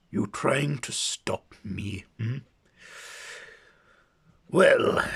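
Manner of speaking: building to a high, loud sneer; mock the hero, then gloat big; taunting villain. Akaten taunting Imhotep before a fight, rising villain sneer.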